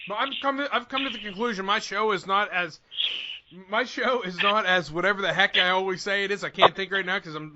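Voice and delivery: talking through sticky peanut butter; mouth full of peanut butter. Real, not acted. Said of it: "I got peanut butter stuck in my mouth".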